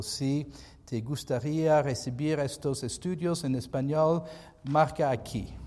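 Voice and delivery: Spanish read with an American accent; English-speaking accent on Spanish words. Real, not acted. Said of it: "I apologize for the terrible Spanish".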